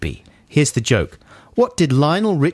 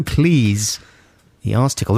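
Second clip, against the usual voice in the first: slow, relished Ecclesiastical; savoring the word; much slower than usual. Real, not acted. Co-host repeating the punchline slowly to savor it. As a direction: stretch out Ecclesiastical slowly, enjoying it.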